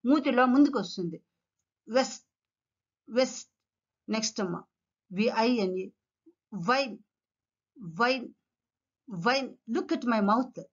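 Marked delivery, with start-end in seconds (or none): 2.0-3.5 "వెస్ట్" as west, lips pushed forward; "వెస్ట్" with no teeth on the lip; W sound. Shown as a demonstration. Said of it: "mouth goes forward". 6.7-9.5 "వైన్" as vine, teeth on bottom lip; V sound. Shown as a demonstration. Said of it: "your teeth should touch the bottom lip".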